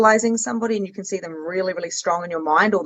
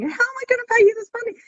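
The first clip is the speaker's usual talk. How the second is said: panicked self quote; much faster than usual. Retold or imitated. Repeating panicked self, faster.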